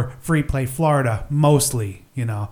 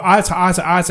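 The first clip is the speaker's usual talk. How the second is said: brief mock cartoon catchphrase; slightly raised, repetitive blustering impression; Foghorn Leghorn; 4 semitones higher, faster than usual. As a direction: lightly imitate a stammering cartoon rooster. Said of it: "I promise I'll never go".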